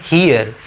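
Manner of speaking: "हियर" said clearly as a model word, falling at the end; teacher modelling "हियर" on its own; pronunciation demo. Shown as a demonstration. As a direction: show how "हियर" is pronounced. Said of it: "इस word को pronounce करते हैं".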